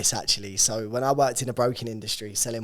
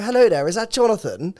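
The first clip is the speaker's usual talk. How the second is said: hammed-up posh Queen's English, higher and louder; mock Queen's English posh; 9 semitones higher, 8 dB louder than usual. Salesman on the phone to a client, mock posh Queen's English. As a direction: put on a plummy Queen's English greeting. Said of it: "tried to teach us Queen's English posh".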